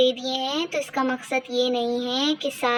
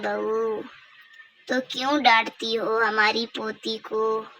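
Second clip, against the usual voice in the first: lightly voiced grandmother; 4 semitones lower, 3 dB quieter than usual. Grandmother defending her granddaughter to the daughter-in-law, a lightly lowered old voice. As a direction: scold the daughter-in-law gently as an indulgent old granny. Same speaker voicing the grandmother.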